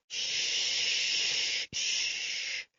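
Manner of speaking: very soft, breathy shush; shushing a crying friend quietly. Acted. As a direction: hush her gently. Sam soothing distraught friend.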